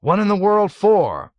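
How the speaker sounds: can't believe his ears; astonished. A narrator's reading. Colonel baffled by Milo's request, astonished high cry. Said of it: "Colonel Cathcart gasped".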